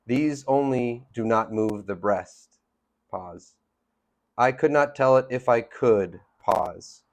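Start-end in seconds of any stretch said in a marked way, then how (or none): 0.1-2.6 slow line, lingering on "breast" before a pause; unhurried verse, "breast" left to linger at the end. Shown as a demonstration. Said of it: "let it linger for a while". 4.4-6.2 raised, deliberate line, lingering on the last "could"; verse read out firmly, last "could" held; lingering on final COULD. Shown as a demonstration. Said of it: "let it linger for a while".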